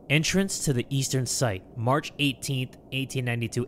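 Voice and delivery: low, measured journal narration; reading a journal. Acted. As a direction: read the entry softly and deliberately. Reads journal.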